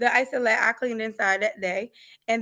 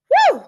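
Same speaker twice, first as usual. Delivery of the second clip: high, loud "woo" of overwhelm; whooped exclamation, much louder; 13 dB louder than usual. Retold or imitated. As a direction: let out a sudden high whoop. Overwhelmed exclamation while retelling crisis.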